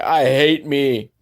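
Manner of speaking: slow hammed-up German accent. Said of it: "but with a German accent".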